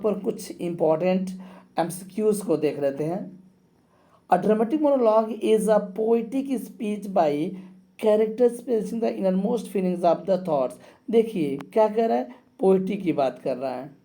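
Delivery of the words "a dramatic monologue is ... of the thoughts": reads the quiz question slowly and clearly; slow dictation reading. Shown as a demonstration. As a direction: spell the question out for the class. (प्रश्न को धीरे-धीरे पढ़कर सुनाना)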